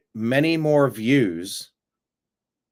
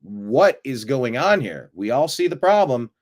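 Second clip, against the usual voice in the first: half-raised yell of disbelief; mock exasperated yelling; 3 dB louder than usual. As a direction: call out as if nobody is listening, swooping on key words. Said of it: "then you start screaming".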